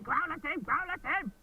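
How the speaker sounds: a light imitation of Tina urging the horse on; retold urging. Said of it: "Tina's a big saying".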